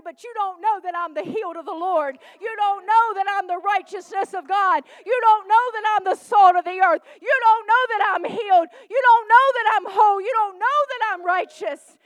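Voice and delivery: loud, rising defiant proclamation; declaring identity with full force; bold declaration. Acted. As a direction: shout it back at doubters. Preacher voicing a bold declaration.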